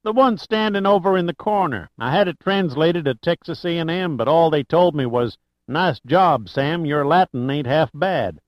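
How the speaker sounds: a hint of a proud small-town storekeeper; eager old Texan. Narrator voices Sam Trinity.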